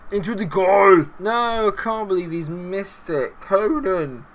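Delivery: high, drawn-out lament; dismayed outcry. Real, not acted. Gamer lamenting that Conan missed, dismayed wail. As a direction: wail slowly in disbelief at the miss.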